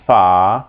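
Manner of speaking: "fa" with a long, open ah; drawn-out "fa" as a syllable demo; long vowel. Shown as a demonstration. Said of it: "the first one is long".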